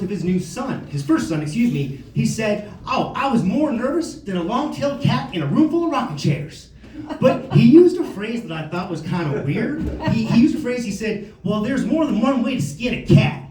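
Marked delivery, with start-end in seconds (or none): 2.8-6.7 higher, lilting imitation Southern voice; lightly put-on Southern accent; Southern good old boy. Buddy Rick on his new son's birth, lightly Southern. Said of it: "good old boy from the South". 11.4-13.4 higher, lightly put-on Southern accent; Southern good old boy. Buddy Rick using an odd phrase, lightly Southern. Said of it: "good old boy from the South".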